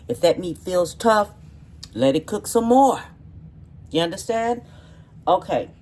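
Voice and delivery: emphatic. Real, not acted. Firm cooking advice to viewers.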